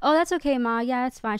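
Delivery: calm, light reassurance to mom; talking calmly. Shown as a demonstration. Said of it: "if I'm just talking calmly".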